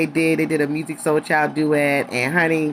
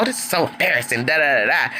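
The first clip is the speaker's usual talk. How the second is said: mock dismissive mumble; 3 semitones lower, faster than usual. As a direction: brush it off mockingly. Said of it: "he starts walking off".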